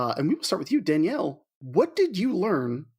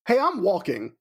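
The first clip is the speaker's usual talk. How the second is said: higher mock New York street call; mock New York accent; 5 semitones higher than usual. Pedestrian to a driver, mock New York accent. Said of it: "That's what you say up there?".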